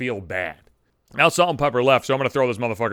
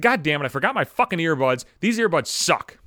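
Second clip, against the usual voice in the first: re-enacted griping; mildly acted, exasperated complaint; bitching; 3 semitones higher than usual. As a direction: gripe to anyone in earshot. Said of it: "I bitched to whoever the fuck would listen".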